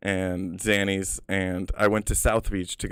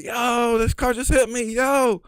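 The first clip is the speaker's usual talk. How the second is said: yelling; 12 semitones higher, slower than usual. Retold or imitated.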